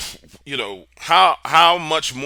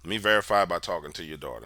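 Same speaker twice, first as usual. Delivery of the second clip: begging; 5 semitones lower, 4 dB quieter, faster than usual. Retold or imitated. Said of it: "I'm begging to talk to the daughter".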